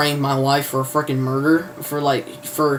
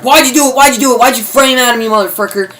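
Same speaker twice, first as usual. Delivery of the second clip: mock-angry demand, pitched up; heated interrogation; 6 semitones higher, 3 dB louder, faster than usual. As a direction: fire accusing questions as an imitated interrogator. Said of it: "interrogating the hell out of him".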